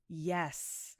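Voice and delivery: a tiny embarrassed yes; admitting it to her dad in a small voice; meek little yes. Retold or imitated. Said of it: "And I'm like".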